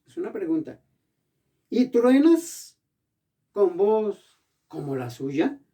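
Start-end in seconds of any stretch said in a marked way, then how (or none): 1.7-5.6 "truenas" thrown out high and loud, very slowly; slow, thundering rhetorical question; booming challenge. Acted. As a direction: roar the question slowly as God's voice. Reading God's question from Job.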